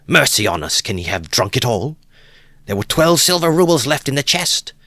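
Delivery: high, loud wail of disbelief; desperate outcry. A narrator's reading. Wife laments the money her husband drank, loud and high. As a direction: cry out in dismay.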